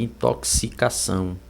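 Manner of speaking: "intoxicação" in soft, separate syllables, X as K-S; K-S sound. Shown as a demonstration. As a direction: show the KSI in "intoxicação". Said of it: "vai ficar um K S".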